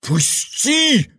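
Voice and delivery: яростный крик, резко выше; выкрикнуть в ярости; furious shout. A narrator's reading. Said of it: "яростно крикнул он". (Иван яростно кричит регенту)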